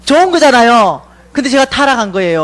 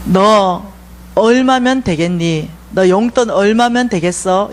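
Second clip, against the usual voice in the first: lower, slow fatherly question; voice of God; 4 semitones lower, slower than usual. Retold or imitated. God asking His daughter her allowance, low and slow. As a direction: ask it slowly and low, like a patient father.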